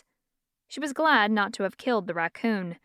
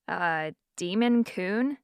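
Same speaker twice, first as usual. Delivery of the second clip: incredulous repeat; 2 semitones lower, slower than usual. Acted. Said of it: "Eleanor repeated".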